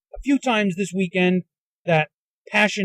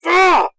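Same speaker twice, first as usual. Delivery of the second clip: loud, higher burst of exasperation; frustrated yell; 9 semitones higher, 7 dB louder than usual. Real, not acted. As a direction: let out an exasperated "ah!". Too frustrated for words.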